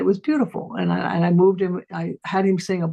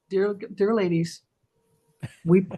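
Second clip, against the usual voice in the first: mock pledge. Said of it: "make them take a pledge".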